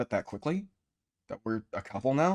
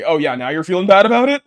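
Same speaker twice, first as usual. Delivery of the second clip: sarcastic; 7 semitones higher, 12 dB louder, faster than usual. Acted. Mocking his own guilt.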